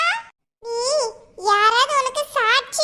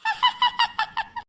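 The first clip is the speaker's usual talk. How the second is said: giggle; 11 semitones higher, 4 dB quieter than usual. Acted. Kid giggles at friend's threat.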